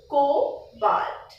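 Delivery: cobalt with a long, drawn-out O; stretched O. Shown as a demonstration. Teacher showing which letter gives the symbol, stretched O in cobalt. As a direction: stretch the first vowel of cobalt, koh-balt. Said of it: "You stretch the O".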